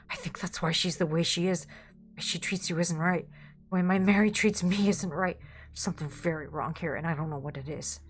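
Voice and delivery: subdued, understated desperation; creeping desperation. Acted. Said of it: "Desperation creeping into his voice".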